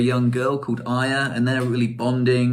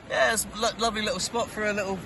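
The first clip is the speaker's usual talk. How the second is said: much higher, softer, rushed sheepish answer; small quick reply; 9 semitones higher, 5 dB quieter, faster than usual. Acted. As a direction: babble it out, embarrassed. Reply from the floor.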